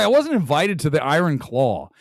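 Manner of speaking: "the Iron Claw" said oddly; odd emphasis. Real, not acted. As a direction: lean strangely into "the Iron Claw". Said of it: "why did I just say it like that".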